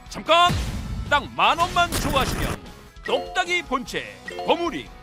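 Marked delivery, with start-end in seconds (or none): 0.1-0.5 sudden shouted wait; loud call. Acted. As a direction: cut in loudly, grabbing attention. Ad pitch, sudden stop call.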